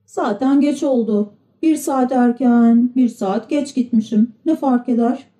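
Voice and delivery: a slightly high little puppet voice; Pinokyo, wavering. Acted. Pinokyo decides being late makes no difference, lightly voiced child.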